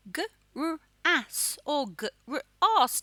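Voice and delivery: G-R-A-S or g-r-as sounded out very slowly; two ways of grass. Shown as a demonstration. Teacher slowly sounds out both ways of saying grass. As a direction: stretch each sound of G-R-A-S. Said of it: "depends on how you say it".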